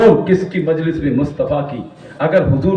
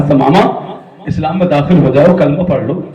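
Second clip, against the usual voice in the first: gently persuasive retold plea, voice settled down; loving invitation. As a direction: invite tenderly, after the preaching has dropped. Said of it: "حضور نے بڑے پیار سے کہا". (پیار بھری دعوت)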